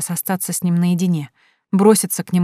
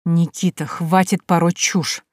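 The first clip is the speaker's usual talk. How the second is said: through gritted teeth; slower than usual. Acted. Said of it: "сквозь зубы выдавил он".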